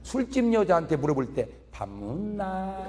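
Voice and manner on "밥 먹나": very soft and slow, 밥 먹나 cooed gently; sweet to the bar hostess. Retold or imitated. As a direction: charm her with a hushed tender question. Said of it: "이렇게 물어봐".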